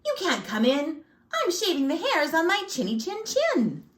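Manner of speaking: high-pitched indignant pig yell; yelling back. A narrator's reading. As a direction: shout the wolf away from behind the door. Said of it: "And he yelled back".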